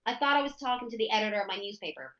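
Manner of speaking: neutral General American accent; everyday American newspaper-drama accent; standard American accent. Shown as a demonstration. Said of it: "this is my general standard".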